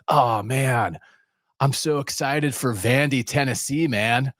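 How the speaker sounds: put-on an excited California surfer accent, stretching the "man". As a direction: gush like a stoked Californian surfer. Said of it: "I'm doing a California surfer accent".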